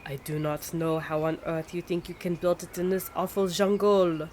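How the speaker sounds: a hint of a put-on French accent; lightly played French diplomat. French envoy scolding the American, mild French accent. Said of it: "horrible attempt at a French accent".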